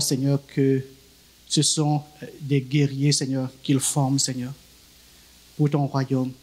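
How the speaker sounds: earnest prayer, repeating Seigneur, measured pace; spoken prayer. Acted. Pastor praying over the children, earnest spoken prayer.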